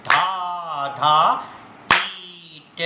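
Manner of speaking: धा, धा, ती, ट recited twice as fast; quick, clipped-together syllables; double speed bols. Shown as a demonstration. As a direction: rattle off the bols at double speed, dugun laya. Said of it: "बजाएंगे double speed में".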